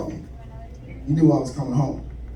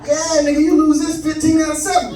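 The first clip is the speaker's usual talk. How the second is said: put-on drunk dad voice; 6 semitones higher than usual. Drunk father on the phone greeting his son home, raised and loose. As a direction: sound like dad after a few drinks. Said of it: "turned into Richard Pryor".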